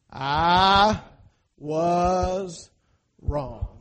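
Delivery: mean every word of it; said like you mean it. Shown as a demonstration. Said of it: "say it like you mean it".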